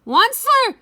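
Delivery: high, loud croaky shout; croaking cry. Acted. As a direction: yell his name with a croak. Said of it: "he cried with a crufulous croak".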